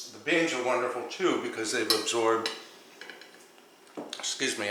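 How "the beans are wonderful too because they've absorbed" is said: talking through a mouthful of food; chewing while talking; mouth full. Real, not acted. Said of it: "I'm talking with my mouth full".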